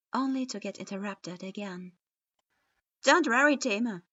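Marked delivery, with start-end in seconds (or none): 3.0-4.0 resolute. A narrator's reading. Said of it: "Naruto declared resolutely".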